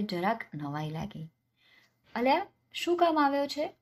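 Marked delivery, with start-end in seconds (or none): 2.1-3.7 much higher, louder landlord's challenge; a rich man barking at a beggar; gruff landlord. Acted. Landlord confronts poor youth.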